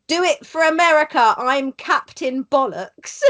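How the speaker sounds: playful retold battle cry; mock shout. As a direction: imitate a rallying shout, half laughing. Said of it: "I put him up to shouting".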